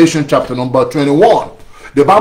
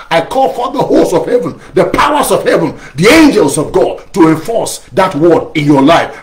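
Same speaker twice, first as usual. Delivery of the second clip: higher invocation calling on heaven's hosts; commanding prayer; 3 semitones higher than usual. Acted. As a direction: summon the angels with authority.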